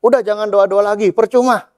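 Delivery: high, huffy acted dismissal; sulking God. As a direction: wave them off in a mock sulk. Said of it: "udah ngambek banget".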